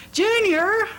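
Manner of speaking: sharp high yell of a name; startled mother yelling. A narrator's reading. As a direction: call out loud and high in alarm. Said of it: "she yelled".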